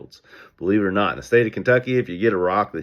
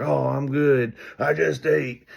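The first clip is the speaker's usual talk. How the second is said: customer brushing off; 7 semitones higher, slower than usual. Retold or imitated. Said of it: "And they're like".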